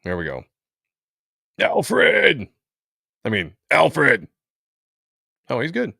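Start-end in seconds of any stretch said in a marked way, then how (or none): 1.6-2.5 high, loud call of Alfred; shout. Acted. Calling out at a comic panel. 3.7-4.3 slow, drawn-out Alfred; slow call. Acted. Second call out.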